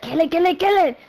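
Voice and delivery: name repeated with a Hispanic lilt; imitated Hispanic accent. Showing how Axel kept calling, Hispanic accent. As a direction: mimic an insistent caller with a Hispanic accent. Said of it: "the way he said".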